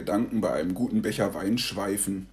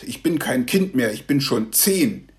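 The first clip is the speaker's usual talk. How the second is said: put-on miffed child; 2 semitones higher, 3 dB louder than usual. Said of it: "sagt Joshua eingeschnappt".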